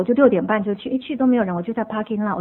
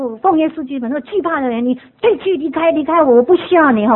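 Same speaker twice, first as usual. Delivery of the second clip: retold loud rebuke; 3 semitones higher than usual. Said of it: "我就很大声".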